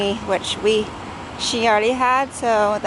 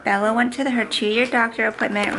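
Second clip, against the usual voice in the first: ordinary talk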